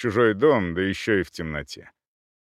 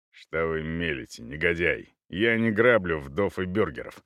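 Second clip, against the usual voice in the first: lower, restrained indignation; stern rebuttal; 5 semitones lower than usual. Acted. Cavalier denies robbing widows, stern. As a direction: answer the insult in a low, controlled voice.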